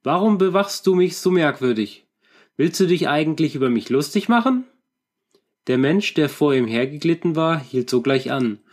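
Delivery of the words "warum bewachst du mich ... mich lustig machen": higher, raised voice calling ahead; loud call. Acted. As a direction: call out sharply to the stranger in front. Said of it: "sagte er laut".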